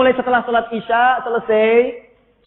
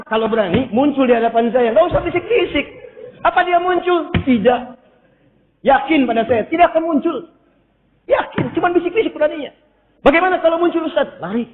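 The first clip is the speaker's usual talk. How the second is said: normal talking voice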